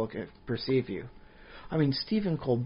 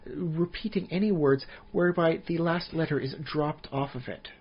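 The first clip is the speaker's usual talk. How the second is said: a pompous elf looking down his nose; haughty elven wizard; 4 semitones higher than usual. Pretend. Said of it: "a British accent or a very proper accent".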